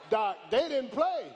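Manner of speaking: loud, punchy declaration; preacher shouting the point; shouted. Real, not acted. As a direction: hit it hard and drop at the end. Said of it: "preacher repeats line, first take".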